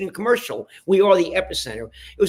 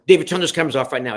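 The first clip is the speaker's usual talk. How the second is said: angry order; 5 dB louder, faster than usual. Retold or imitated. Acted quarrel over cameras.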